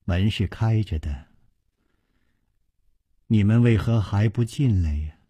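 gentle, unhurried low-key invitation; slow elegant voice. A narrator's reading. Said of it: "优雅的语声又已经缓缓地说". (语声优雅，缓缓地说)

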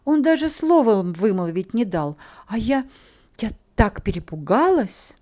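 plaintive make-believe alarm; put-on, indignant scare; feigned fright. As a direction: complain like a frightened victim. Feigning fright to win sympathy.

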